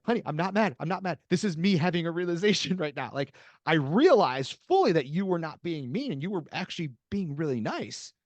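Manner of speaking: calm her down, she misread you; reassuring. Retold or imitated.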